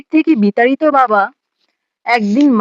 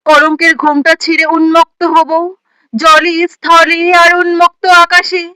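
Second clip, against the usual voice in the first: impassioned declamation; 3 semitones higher than usual. Acted. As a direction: proclaim it like a rousing prophecy, pitch held up. Poem's climax, prophecy of women rising. (উদাত্ত, উদ্দীপ্ত আবৃত্তি)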